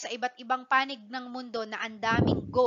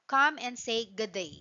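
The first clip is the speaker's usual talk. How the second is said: light Australian accent, "good day" run together as "G'day"; Australian slang. Shown as a demonstration. Teacher showing class the slang tagline, light Australian accent. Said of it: "you have to pronounce it in a slang".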